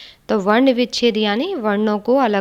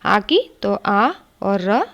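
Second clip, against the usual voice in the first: slow spelling out; much slower than usual. Shown as a demonstration. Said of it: "बड़े मात्रा है".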